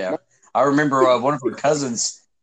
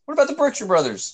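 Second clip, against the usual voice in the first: higher, clearer repeat for a listener who missed it; pitched up, spelled-out repeat; repeated clearly after not heard; 10 semitones higher than usual. Real, not acted. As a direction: say it again so they catch it.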